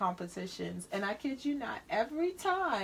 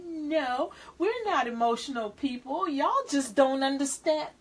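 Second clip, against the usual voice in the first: higher, insistent mock protest; mock indignant denial; 5 semitones higher, 4 dB louder than usual. Cancer insisting they aren't emotional, mock indignant. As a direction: push back in playful indignation.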